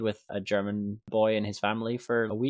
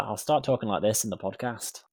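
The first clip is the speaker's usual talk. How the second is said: mock Scottish slipping into Welsh; muddled fake Scottish-Welsh accent; botched Scottish accent. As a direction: attempt Scottish, drift towards Welsh. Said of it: "I thought that was Welsh".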